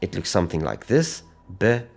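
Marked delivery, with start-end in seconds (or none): 1.6-1.9 "Bereshit" in three pieces, long pauses between; divided into syllables. Shown as a demonstration. Teacher dividing the word for students, "Bereshit" syllable by syllable. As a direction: say "Bereshit" as "buh... reh... sheet". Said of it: "if we divide that into syllables".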